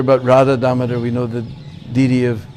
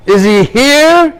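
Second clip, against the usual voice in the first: even higher and slow, loud roaring challenge; rising fury; 9 semitones higher, 6 dB louder, much slower than usual. Acted. Demon king raging louder at his son, slow furious roar. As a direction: push the rage up a notch.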